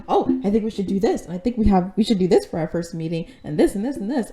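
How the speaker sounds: quick imitation of an eager pitcher; bombarding with ideas. New vice president bombards the president with ideas, mock rapid pitch. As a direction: rattle off suggestions, mimicking someone pushy. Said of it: "comes up and bombards Steph with all these ideas".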